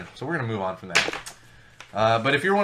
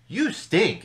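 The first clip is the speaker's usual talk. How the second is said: lightly mocking kid's taunt, higher pitch; imitated second grader; 5 semitones higher, 3 dB louder than usual. Second grader insulting another kid, mock childish taunt. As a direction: toss out a playground insult, half-acted. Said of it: "when you were in, like, second grade".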